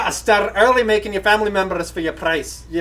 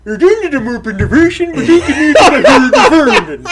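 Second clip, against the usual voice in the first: laughing; 5 semitones higher, 6 dB louder than usual. Real, not acted. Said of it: "I don't have a Muppet".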